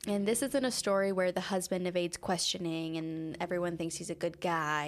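measured, even podcast storytelling voice; true crime narration. Acted. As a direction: narrate the case calmly over the music. Continues case narration.

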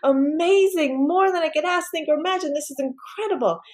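high, stretched-out wonder; amazed gratitude. Retold or imitated. Retelling her thanks to the Lord for fun, amazed gratitude. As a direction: marvel aloud, lingering on the key words. Retold amazed prayer after concert invitation.

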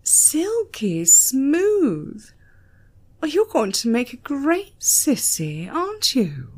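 grinning. A narrator's reading.

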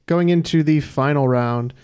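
slow, measured host announcement; game show host. Acted. Quiz host announcing scores.

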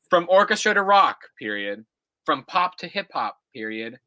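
put-on reading an old essay aloud, punctuation and all; dictating. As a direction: read it out like dictation, calling each comma. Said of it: "all caps".

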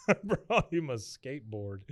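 real chuckle running into the words; amused laughing. Real, not acted. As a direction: repeat it through a laugh. Laughs repeating the absurd line.

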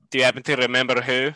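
quick in-character question. Shown as a demonstration. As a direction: ask it fast as your character. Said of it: "ask that in your character voice".

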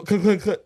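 clicking noise. Retold or imitated. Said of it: "then you hear the click".

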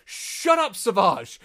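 high, loud comic snap; Maul. Acted. Maul silencing Savage mid-grovel, panicked snap. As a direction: shush your companion in a hammed-up panic. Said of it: "He's like".

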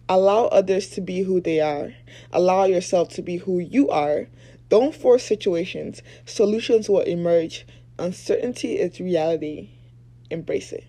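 slushy s sounds, lisping through a retainer; talking with a retainer. Real, not acted. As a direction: speak with a retainer in your mouth. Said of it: "talking with a retainer".

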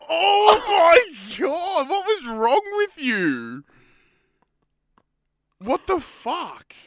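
loud, slow, disbelieving high shout; gobsmacked. Real, not acted. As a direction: howl in shocked disbelief. Reacting to cringe message.

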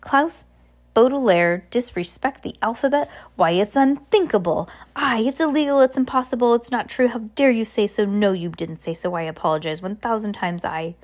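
a touch of outrage, fading into apology; indignant captain. Acted. Captain defending Klaus's respect for the alphabet, mildly indignant.

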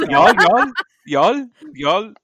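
put-on loud, high Valley Girl Bollywood "y'all"; hammed-up Bollywood Valley Girl calls; mock Bollywood Valley Girl. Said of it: "it's the Valley Girl version of Bollywood".

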